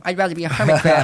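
quick, brighter llama voice; Lonnie the Llama voice. Acted. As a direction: chirp it like a cartoon llama. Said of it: "he sings a whole song".

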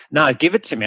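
rough attempt at an English accent. Coach quoting his client's reply, attempted English accent. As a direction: put on an amateur English accent. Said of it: "I'll do an English accent".

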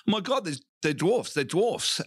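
high-pitched, wide-eyed retold excitement; thrilled child. Comic as a child telling mum about the dwarfs, thrilled. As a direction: blurt it like an awestruck kid.

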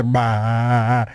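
long, low "bah"; imitated brain-glitch noise. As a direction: let out a drawn-out, low malfunction noise. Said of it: "the synapses in my brain go".

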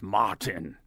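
imitated German "Martin"; slow mock German pronunciation; German accent. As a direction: say the name as a German would. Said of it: "a guy from Germany recently named Martin".

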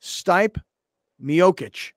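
"Stipe" as one syllable, rhyming with type; mispronounced name. Retold or imitated. Host quoting colleague's botched name, "Stipe" said like type. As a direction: say "Stipe" like type, "Miocic" as mee-OH-kitch. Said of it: "Lawhead yesterday kept calling".

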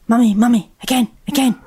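put-on childlike begging; eager child. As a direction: bounce it like a happy toddler. Child voiced pleading on stairs.

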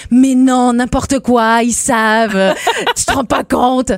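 imitated protest, breaking into laughter; mock disbelief. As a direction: play the incredulous local brushing it off. Acts out disbelieving people back home.

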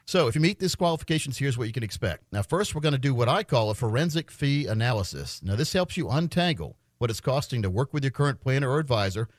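steady radio sales pitch; infomercial. Acted. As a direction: pitch the offer like a radio host. Live on-air ad pitch.

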